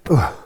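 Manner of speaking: short punched grunt; demo grunt. Shown as a demonstration. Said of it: "like that".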